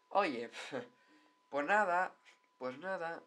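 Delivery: high-pitched, drawn-out resigned "oye"; imagined mascot heckler. Acted. Reacting to a pyjama-clad mascot, imagined indifferent remark. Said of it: "bueno, dirías".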